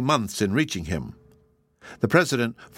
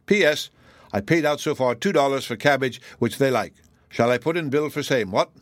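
lightly voiced Irish agent, a little raised; Irish agent's letter; 3 semitones higher than usual. Flannery writing to Morgan about the pigs, lightly Irish.

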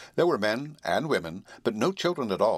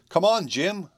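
high, raised-voice call; 9 semitones higher, 4 dB louder, slower than usual. A narrator's reading. Boy calling the horse off the roof, raised voice. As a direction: call to someone some way off. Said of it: "called the boy".

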